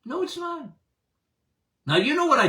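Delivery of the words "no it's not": "No, it's not" again, much softer but still high; soft repeat. Real, not acted. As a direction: drop it to a knowing hush. Rebuts the critics, then repeats.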